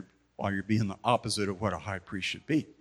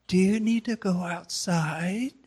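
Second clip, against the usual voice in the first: slow, higher, stern principal voice; principal mode; 8 semitones higher, slower than usual. Retold or imitated. Principal scolding giggling residents in the back, slow and stern. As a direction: pin them with a steely warning. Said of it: "Mim shifted into principal mode".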